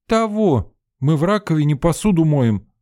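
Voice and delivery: high, loud telling-off; scolding outburst. A narrator's reading. Sveta scolding the narrator over the sink. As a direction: tear into him for the bucket.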